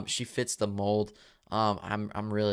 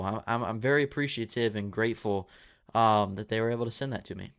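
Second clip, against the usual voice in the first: tripping over the words; stumbling, repeating words with a dry mouth; stuttering. Real, not acted. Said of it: "Dude, I'm stuttering".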